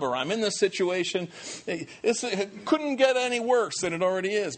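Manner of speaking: a light whiny complaint; mock complaining. Believer complaining to God about lost job, lightly whiny. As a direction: lightly act out a frustrated believer.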